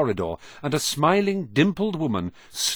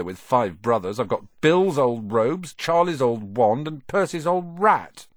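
a hint of an aggrieved schoolboy; lightly voiced glum Ron. Youngest brother telling a new friend his troubles, mildly aggrieved. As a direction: lightly play a boy listing his burdens. Boy character airs his grievances.

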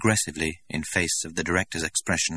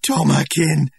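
much higher and louder anguished call; grief-stricken cry; 10 semitones higher, 9 dB louder, slower than usual. A narrator's reading. Linda holding out her arms to the director, anguished. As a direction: cry his name in despair. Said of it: "grimace of extreme grief".

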